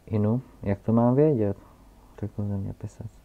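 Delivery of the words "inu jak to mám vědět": put-on old geographer. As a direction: announce your title with pompous weight. Geographer character voice. (hlasitý, pomalý a důležitý starý zeměpisec)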